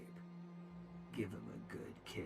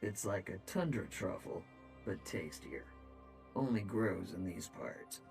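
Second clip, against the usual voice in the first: echoing voice inside helmet. Acted. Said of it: "cool they have the echo sound from the helmet".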